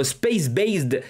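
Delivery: slow English read with a heavy French accent; thick French accent. Real, not acted. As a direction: spell out the English name slowly in a strong French accent. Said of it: "avec mon accent, euh, à couper au couteau". (anglais lent avec un fort accent français)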